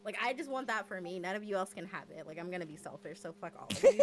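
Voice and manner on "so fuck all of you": high, loud playful cursing; mock outburst. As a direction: curse them all loudly in jest. Joking outburst, then just kidding.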